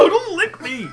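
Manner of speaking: high, loud disgusted yell; shout. Real, not acted. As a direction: yell it, grossed out. Shouted at someone licking.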